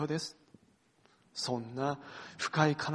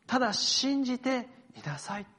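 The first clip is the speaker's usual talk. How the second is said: ただ信じていなさい lifted higher, ending on a rise; Jesus's reassurance; 6 semitones higher than usual. Retold or imitated. Pastor voicing Jesus to Jairus, raised and hopeful. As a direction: say ただ信じていなさい higher, as a gentle lift of hope. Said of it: "そして続いて".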